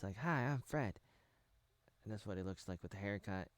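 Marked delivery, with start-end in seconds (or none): 0.2-1.0 put-on lightly raised, high boyish voice; a mild imitation of a high-voiced boy; hint of a high-pitched YouTuber greeting; Fred. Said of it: "had a very high voice".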